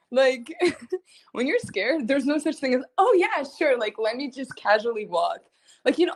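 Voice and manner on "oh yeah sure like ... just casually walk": sarcastic mock. Mocking calm walk.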